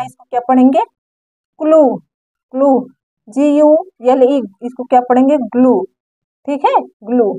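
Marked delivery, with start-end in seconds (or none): 1.6-2.7 "क्लू" modelled twice as a separate word; teacher repeating "क्लू" with an oo ending; long oo. Shown as a demonstration. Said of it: "ओ का long sound". 5.6-5.8 "ग्लू" modelled alone, ending in oo; teacher's demo answer "ग्लू"; long oo. Shown as a demonstration. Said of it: "ओ का long sound".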